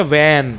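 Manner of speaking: when, a short clean wen; correct when. Shown as a demonstration. Teacher modelling the right when after the wrong take. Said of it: "when में भी एस silent है".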